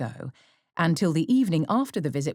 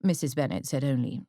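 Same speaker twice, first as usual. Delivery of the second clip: ordinary delivery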